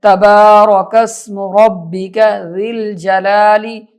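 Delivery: slow tajweed with stretched vowels; Quran recitation. Shown as a demonstration. Teacher reciting the last verse, slow recitation. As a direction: recite slowly and evenly.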